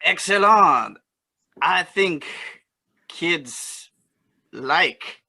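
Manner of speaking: lightly put-on Cajun accent. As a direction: play at a Cajun drawl. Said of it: "you still have to use your Cajun accent".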